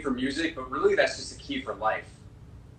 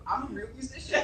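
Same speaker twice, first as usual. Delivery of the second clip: high, laughing self-mockery; laughing mock brag; 11 semitones higher, 5 dB quieter than usual. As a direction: chuckle through a pretend boast. Mock boasting while laughing.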